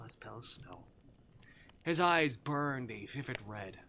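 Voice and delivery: measured, lingering narrator delivery; story narration. A narrator's reading. Prisoner describing the demon's unmasked face, awed storytelling.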